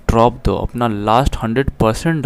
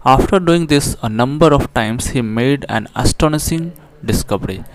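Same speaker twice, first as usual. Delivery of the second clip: slow, careful reading aloud of the English line; slow text reading; much slower than usual. Shown as a demonstration. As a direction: read each word out deliberately for the class. Reads English text aloud slowly. (धीमे, साफ़ अंग्रेज़ी पाठ-वाचन)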